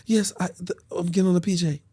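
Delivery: put-on high, hesitant girlfriend voice; imitating woman friend. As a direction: admit it haltingly in her high voice. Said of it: "She's like".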